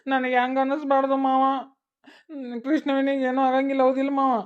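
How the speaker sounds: tearful plea. Acted. Worried girl asks uncle, crying.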